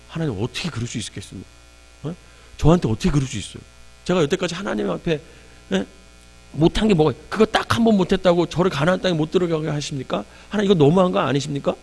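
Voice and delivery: fast, rising protest at God; talking back. Retold or imitated. The preacher imagines protesting to God, defiant. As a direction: argue back, hurt and indignant. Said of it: "막 이렇게 대들 것 같아요".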